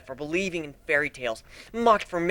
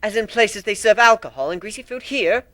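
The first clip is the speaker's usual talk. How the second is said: amazed sister; 7 semitones higher, 7 dB louder than usual. A narrator's reading.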